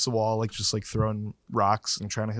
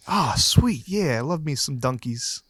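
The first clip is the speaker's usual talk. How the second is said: put-on Boston accent. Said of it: "put on your best Boston accent".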